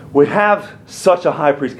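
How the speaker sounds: "have" set apart and held; stress on HAVE. Real, not acted. Preacher reading the verse to the church, stressing "have". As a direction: lean on the word "have". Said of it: "Can I emphasize that word have".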